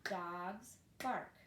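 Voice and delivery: each word clapped apart, dogs and bark. Shown as a demonstration. Teacher claps the sentence for a child, each word apart. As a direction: tap out dogs and bark as separate beats. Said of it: "try to clap out".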